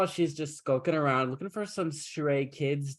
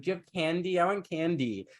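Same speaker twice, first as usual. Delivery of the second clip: lightly voiced small child, higher pitch; little girl; 5 semitones higher than usual. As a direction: ask like a little kid after sweets. Voices little Aurora begging for candy.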